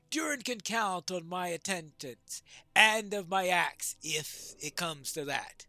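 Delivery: measured, declaimed pledge; lightly voiced dwarf lord. Dwarf pledges attendance and his axe, lightly declaimed. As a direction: lightly act a dwarf giving his word.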